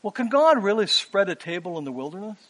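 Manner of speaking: sceptical rising question on God; doubting question. Retold or imitated. Preacher quoting the doubters' adage as a sceptical question. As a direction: voice the old doubt, rising at the end. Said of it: "the adage was".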